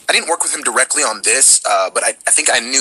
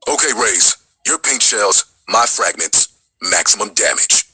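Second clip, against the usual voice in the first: a touch lower, steady soldier; original KO line; 4 semitones lower, slower than usual. Shown as a demonstration. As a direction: deliver it like a calm teammate. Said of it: "Do you remember that?".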